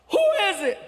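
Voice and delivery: high, loud yell through the door; yelled question. Retold or imitated. Man yelling at the knock on his hotel door. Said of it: "He yells".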